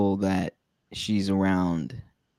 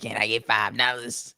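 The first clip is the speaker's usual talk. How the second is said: twitchy slurred sniffing addict; 5 dB quieter than usual. Retold or imitated. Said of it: "like, crackhead voice".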